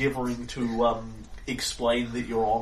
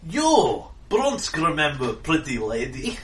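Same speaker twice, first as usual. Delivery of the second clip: broken English brute; slower than usual. Acted. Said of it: "He says".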